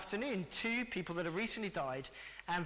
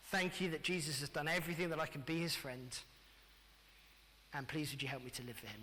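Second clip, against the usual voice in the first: quiet prayer; 4 semitones lower, 3 dB quieter than usual. Shown as a demonstration. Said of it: "A little prayer that says".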